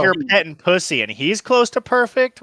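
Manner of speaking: high, loud indignant disbelief; mock outrage. Real, not acted. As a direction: play up the outrage. Mock outrage at friend's praise.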